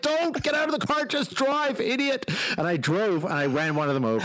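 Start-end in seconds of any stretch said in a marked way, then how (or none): 0.0-2.3 high-pitched mock scolding; retold exasperated order. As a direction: imitate exasperated teammates in a high voice. Retold teammates berating him.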